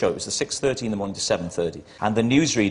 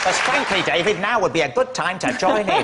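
hammed-up indignant rant, louder and higher; mock indignation; 8 semitones higher, 4 dB louder than usual. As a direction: play the wounded colleague over the top. Mock outrage at teammates.

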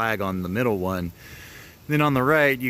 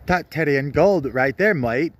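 hammed-up British accent, pitched higher; mock British accent; 8 semitones higher than usual. Vlogger playing Johnny Top Hat, mock British accent. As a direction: play a cartoon Brit, chirpy and over the top. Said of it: "and I have an accent".

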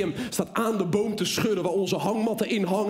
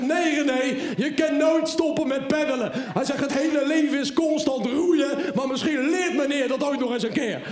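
wise-guy life lesson to his son; lightly voiced lecturing father; preachy father; 5 semitones higher than usual.

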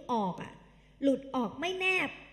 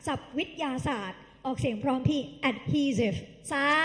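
slow drill; slower than usual. Shown as a demonstration.

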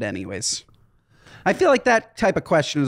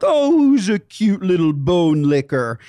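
put-on baby talk to a puppy; 3 dB louder, slower than usual. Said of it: "I talk to him in that, cutie puppy voice".

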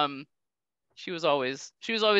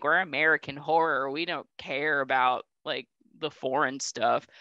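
lower, dismissive mock voice; snobby mainstream voice; 7 semitones lower than usual. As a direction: play a smug American studio dismissing foreign films. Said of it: "it's like".

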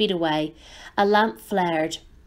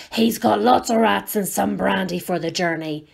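muffled. Acted. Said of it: "in a muffled voice".

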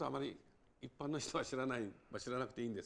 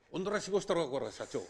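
Hiroshima dialect; 3 semitones higher, 5 dB louder than usual. Shown as a demonstration. Racketeer intimidating a company president, in menacing Hiroshima dialect. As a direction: lean on the boss in rough Hiroshima dialect. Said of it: "広島弁だとね".

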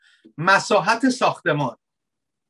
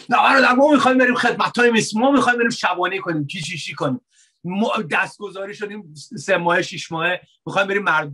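mock eager believer; faster than usual. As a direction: parody a naive zealous brother. (تقلید تمسخرآمیز از برادر مشتاق، تند)

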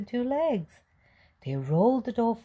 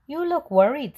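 fox's sly voice; 9 semitones higher, 5 dB louder than usual. A narrator's reading. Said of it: "said a voice".

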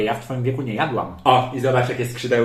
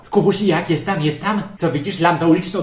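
higher, louder eager calls; calling out; 5 semitones higher, 4 dB louder than usual. Acted. Aunt calling to Kubuś at the window about the first star, eager loud calls. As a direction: call across the room to a child.

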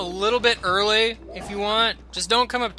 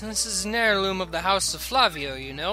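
put-on higher, grand rich-boy manner; pompous Flavio voice; 4 semitones higher than usual. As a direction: play the vain nobleman. Voices Flavio in game dialogue.

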